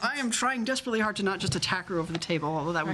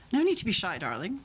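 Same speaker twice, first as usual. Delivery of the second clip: put-on posh West End accent; faster than usual. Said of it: "my posh West End accent".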